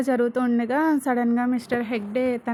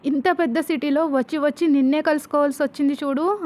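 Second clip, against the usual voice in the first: retold bitter shout, a little louder; shouting loudly; 2 semitones higher, 4 dB louder than usual. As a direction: spit out years of resentment in a raised voice. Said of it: "Vasu గట్టిగా అరుస్తుంది".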